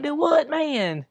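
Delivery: baffled disbelief. Retold or imitated. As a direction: let the disbelief stretch out. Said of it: "I'm just like".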